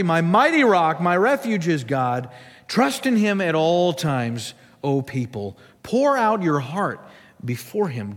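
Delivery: measured, emphatic Bible reading; scripture reading. Real, not acted. Pastor reads the Psalm to the church, solemn reading. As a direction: read the Psalm out to a congregation.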